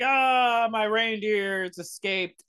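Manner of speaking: lightly voiced wailing Santa; mock-distressed Santa. Santa lamenting his escaped reindeer, mild mock wail. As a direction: cry out on "Ah", then let it subside. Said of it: "Santa Claus is basically like".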